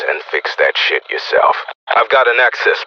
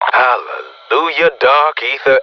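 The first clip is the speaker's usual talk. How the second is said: exultant relief; 5 semitones higher than usual. Acted. Celebrating success at last.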